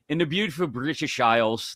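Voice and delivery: hint of a hammy British accent; badly faked British accent, lightly done; terrible British accent. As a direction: put on a bad British accent. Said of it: "that was a terrible accent".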